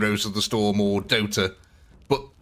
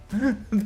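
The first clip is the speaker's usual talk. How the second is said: short giggle; 10 semitones higher than usual. Real, not acted. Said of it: "I don't know where I've got that from".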